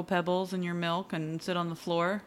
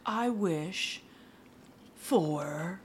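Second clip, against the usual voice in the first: Scrooge's brogue; 5 dB quieter, slower than usual. Retold or imitated. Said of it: "Can you do an Irish accent?".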